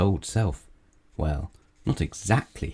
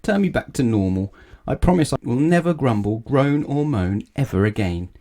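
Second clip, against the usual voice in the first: begging; 5 semitones higher than usual. Acted. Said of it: "begged Mister Grumble".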